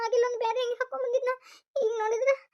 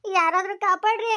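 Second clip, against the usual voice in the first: desperate shout for rescue; calling for help; 3 semitones higher than usual. Acted. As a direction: call out to anyone nearby to save you. Girl cries for help.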